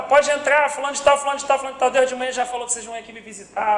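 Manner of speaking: high, loud, rattled-off greeting; imitating an eager welcoming sister. Sister calling morning visitors in before opening, imitated high and eager. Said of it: "então a gente batia lá de manhã".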